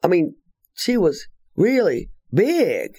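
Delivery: lightly voiced little lady; imitating Kay. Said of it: "she said".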